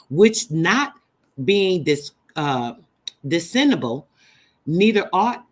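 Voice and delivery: halting, tripping over the words; stumbling read. Real, not acted. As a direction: trip over which not being dis-, discernible. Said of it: "Lord, I'm sorry, y'all".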